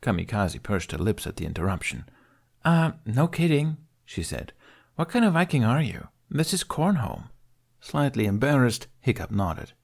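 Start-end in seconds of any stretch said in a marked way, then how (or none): 2.6-3.8 high, scornful teasing; mocking girl. Kamikaze mocking Hiccup. 4.9-7.3 high, scornful teasing; mocking girl. Kamikaze mocking Hiccup.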